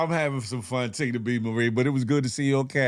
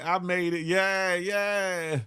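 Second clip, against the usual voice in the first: higher, slow rising proclamation; hammed-up grateful speech; mock triumphant; 5 semitones higher, slower than usual. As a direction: preach it like a victory speech. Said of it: "it was like".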